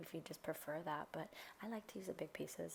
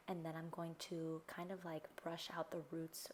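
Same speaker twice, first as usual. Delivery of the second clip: talking with water in mouth; mouthful of water, words slightly garbled; water held in mouth. Real, not acted. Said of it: "sorry, I have water in my mouth".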